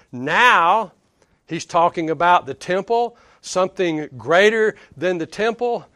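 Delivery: mildly acted disbelief; mock incredulous. Preacher voicing legalists hearing of the temple, mock incredulous. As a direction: play the listeners who can't believe their ears. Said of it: "This is the way they would receive it".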